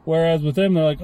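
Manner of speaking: ordinary talk, nothing marked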